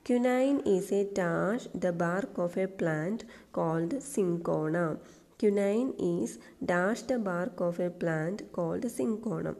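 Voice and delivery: slow, deliberate exam question read-out; slow dictation reading. Shown as a demonstration. Teacher reading a PSC question aloud slowly. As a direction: read each word slowly for the class. Reads exercise sentence slowly.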